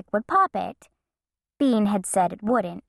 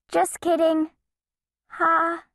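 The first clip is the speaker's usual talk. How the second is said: higher, nervous fake laugh; sheepish laugh-off; 8 semitones higher than usual. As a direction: lightly laugh it off. Bean backpedaling.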